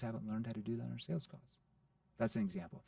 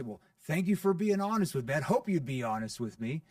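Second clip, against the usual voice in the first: playful; 3 semitones higher, 6 dB louder than usual. Shown as a demonstration. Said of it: "I have to use a playful tone".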